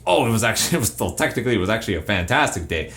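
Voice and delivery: mock gloom while reporting a fantastic day, a laugh breaking through; deadpan complaint hiding good news; gloomy tone, good news. Shown as a demonstration. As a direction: sound miserable about a great day. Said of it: "you say it with the tone and the voice to make it sound like it was awful".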